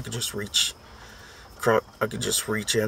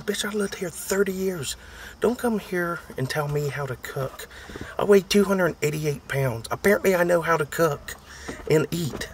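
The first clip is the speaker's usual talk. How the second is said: higher-pitched mock telling-off; indignant imagined retort; 6 semitones higher than usual. Telling off the in-law who criticizes his cooking, indignant. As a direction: put her in her place, half-joking.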